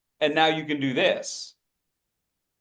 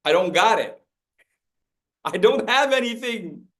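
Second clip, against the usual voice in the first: mock helpless; 4 semitones higher than usual. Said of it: "universal sign for".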